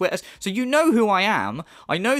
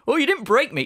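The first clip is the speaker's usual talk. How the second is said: high whiny mock of "you didn't break me"; high mocking parrot of "break me"; high mocking quote; 8 semitones higher than usual. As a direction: parrot him back, pitched high and whiny. Mocking the rival's words.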